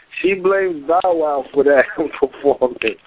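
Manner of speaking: slow, laughing through the words; amused, laughing. Real, not acted. Battle fan jokes about who Miss Gracie blames, laughing. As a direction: let real laughter break into the sentence.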